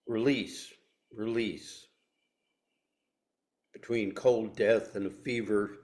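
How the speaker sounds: measured reading with long pauses between images; poem reading. Acted. Speaker reads Ruth Stone's poem to the group, measured poem reading. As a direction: let each line land, then pause.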